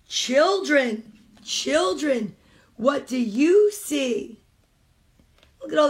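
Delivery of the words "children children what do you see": slow, rhythmic picture-book reading; reading aloud to children. Acted. Mom reading a picture book to kids on a stream, storytime reading. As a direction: read it like storytime for little ones.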